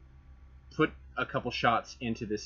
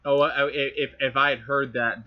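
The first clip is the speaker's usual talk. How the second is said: usual speaking voice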